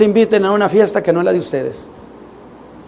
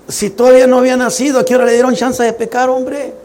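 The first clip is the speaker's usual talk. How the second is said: incredulous protest; 6 semitones higher than usual. Retold or imitated. Arguing with Pedro, retold.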